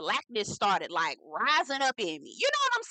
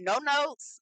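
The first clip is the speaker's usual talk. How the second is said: higher emphatic take; 5 semitones higher than usual. Shown as a demonstration. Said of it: "Ooh, I'm not mad".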